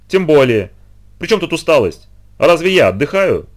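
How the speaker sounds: ranting boss. Acted.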